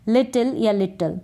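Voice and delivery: लिटिल या लिटिल, the same word given two ways; लिटिल twice, each version slightly different; both accepted ways of saying लिटिल; two pronunciations. Shown as a demonstration. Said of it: "दोनों तरीके से pronounce कर सकते हैं".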